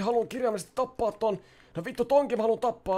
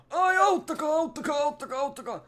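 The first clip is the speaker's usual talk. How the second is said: tag; 4 semitones higher than usual. Pretend. Stuck, calling for help.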